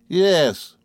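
high, sharp confirmation; mastered rage in one word; Rosa Dartle, cold hatred. A narrator's reading. Rosa answering Emily, stern hatred. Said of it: "unrelenting hatred of her tone".

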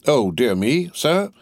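affronted echo rising high on "sir"; taken-aback repeating. A narrator's reading. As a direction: throw the words back as a startled question. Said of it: "repeated Stryver, drawing back".

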